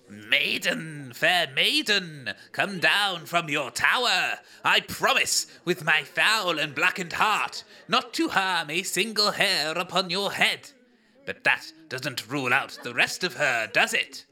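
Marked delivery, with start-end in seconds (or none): 0.1-10.7 slow, lightly voiced wicked witch. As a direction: lure her down like a sly witch. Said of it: "I'll show you how to be a wicked witch".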